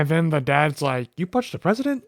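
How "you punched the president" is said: high, rising disbelief in a retold question; mock-astonished question, pitched up; incredulous dad. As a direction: quote the dad as if you can't believe it. Voicing the dad's shocked question.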